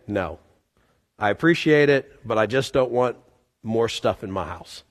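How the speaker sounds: meek refusal. Retold or imitated. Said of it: "I had to say".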